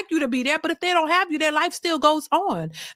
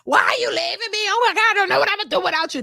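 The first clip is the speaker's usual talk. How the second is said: high, theatrical desperate wail; mock screaming plea; 6 semitones higher than usual. Imitating a man begging her not to go, mock screaming. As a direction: mimic a clingy partner begging in panic. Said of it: "they want you to start screaming".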